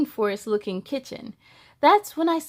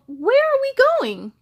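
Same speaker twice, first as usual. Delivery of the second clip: high, loud call while running; frightened child yelling to the tree; yelled; 11 semitones higher, 4 dB louder than usual. Acted. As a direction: shout it over the rush. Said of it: "I yelled".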